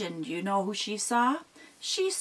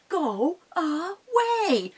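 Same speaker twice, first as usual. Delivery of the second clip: stern troll; 8 semitones higher, much slower than usual. Acted. Mama Troll ordering the goat off the bridge. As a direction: stretch it out to scare him off.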